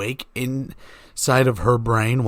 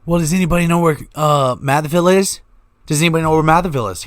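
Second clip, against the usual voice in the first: mock quiz; 4 semitones higher, 5 dB louder, faster than usual.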